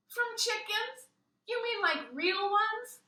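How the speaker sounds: put-on a kid appalled at the news, pitched high; shocked child.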